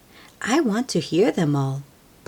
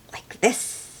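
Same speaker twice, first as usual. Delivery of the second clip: soft unvoiced like this; grandma showing how to roll leaves; whispered demo; 6 semitones higher, 4 dB quieter than usual. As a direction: breathe it out gently.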